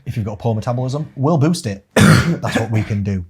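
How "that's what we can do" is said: coughing through the words; coughing fit. Real, not acted. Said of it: "Sorry, I'm coughing so much".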